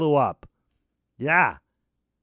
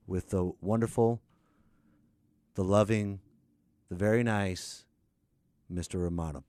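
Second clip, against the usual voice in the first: meek flattery; 11 semitones lower, 5 dB quieter than usual. Acted. Host's exaggerated flattering intro.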